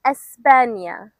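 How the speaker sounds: España said slowly as es-PA-nya; España, slow and careful, clear nya; Spanish pronunciation. Shown as a demonstration. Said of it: "How would you say that?".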